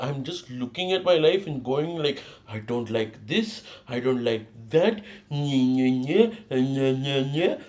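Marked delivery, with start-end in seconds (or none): 2.5-7.6 mock whiny baby voice, a little slow. Vlogger mocking his own whining, lightly whiny baby. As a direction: whine like a sulky baby, half-joking. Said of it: "I sound like a baby".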